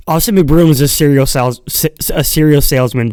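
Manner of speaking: trips over the word salesman and restarts; stumbled delivery. Real, not acted. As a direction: fumble the line, stutter and restart. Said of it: "and I fucked it up".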